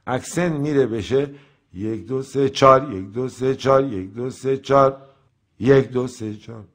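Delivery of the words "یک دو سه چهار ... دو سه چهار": accent shifted to the fourth beat. Shown as a demonstration. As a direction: count with چهار punched loud.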